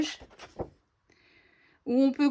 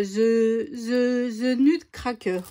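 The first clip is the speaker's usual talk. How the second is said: hesitant English with a French accent; English accent, halting on the first word; attempted English accent; much slower than usual. Real, not acted. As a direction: stumble into an English accent on the title. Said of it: "vous avez entendu mon bel accent, euh, anglais".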